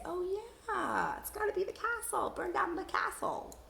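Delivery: light up as the word clicks; realizing aloud. Shown as a demonstration. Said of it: "read ahead a little bit, and say".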